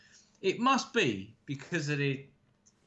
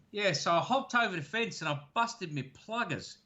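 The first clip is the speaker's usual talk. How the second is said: lightly imitated Australian accent, pitched up; casual Aussie bloke impression, raised pitch; 5 semitones higher than usual. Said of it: "it's almost a Cockney accent".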